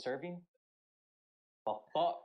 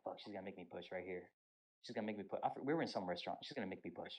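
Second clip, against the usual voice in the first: worried inner thought; 5 semitones lower, 7 dB quieter, faster than usual. Retold or imitated. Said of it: "I'm like".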